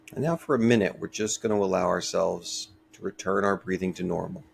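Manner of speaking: calm, unhurried meditation voice with long pauses; guided meditation. Real, not acted. Teacher leading a short breathing meditation for listeners, calm and measured. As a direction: gently guide listeners through each breath, leaving space between phrases.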